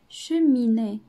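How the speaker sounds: شوميني said loud and drawn out; teacher sounding out شوميني; stressed loud. Shown as a demonstration. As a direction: call out شوميني loudly, syllable by syllable. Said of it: "كنسمعوها هنا".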